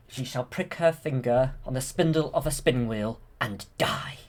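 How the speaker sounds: lightly dramatised villain's curse; Maleficent. Retold or imitated. Maleficent cursing the princess, lightly acted villainess. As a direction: pause for effect, let the last word sink to a whisper. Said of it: "then she says something like".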